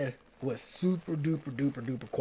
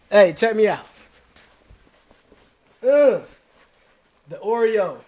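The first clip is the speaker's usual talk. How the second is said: much louder, higher hype call; excited call-out; 6 semitones higher, 9 dB louder than usual. Real, not acted. Showing off his old jacket to viewers in a loud, high hype call. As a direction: shout it out like a showman.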